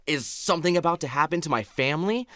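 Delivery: retold rush of worried questions; teary-eyed panic. Fearing for the family's safety, teary-eyed panic. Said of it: "get teary-eyed. And I'm like".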